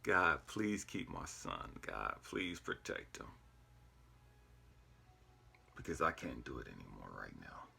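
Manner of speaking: pleading prayer. Retold or imitated. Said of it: "I start praying".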